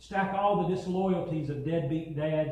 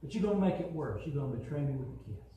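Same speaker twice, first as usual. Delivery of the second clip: sorrowful Jesus; 3 semitones lower, 3 dB quieter, faster than usual. Acted. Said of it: "can't you just hear Jesus saying".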